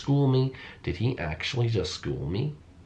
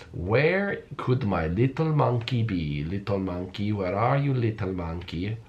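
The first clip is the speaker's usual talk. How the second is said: creepy singsong search; slower than usual. Pretend.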